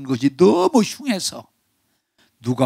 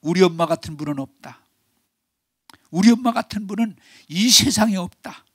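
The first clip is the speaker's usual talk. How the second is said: proud declaration; 6 semitones higher than usual. Retold or imitated. 딸의 당당한 선언.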